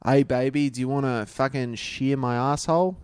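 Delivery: lightly put-on Australian accent; broad Australian. Co-host takes his turn, mild bogan Australian. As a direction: crude chat-up in broad Australian. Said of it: "You give it to him".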